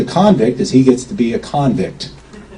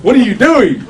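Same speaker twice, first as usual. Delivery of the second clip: much higher and slow, with an amazed laugh; shocked; 10 semitones higher, slower than usual. Retold or imitated. To friend signing a contract unread, shocked high laughing gasp. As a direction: stretch it out in high, laughing disbelief. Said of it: "And I went".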